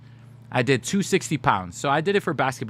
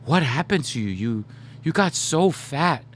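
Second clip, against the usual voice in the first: Samoan auntie; 3 semitones higher than usual. Retold or imitated. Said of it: "she laid me out".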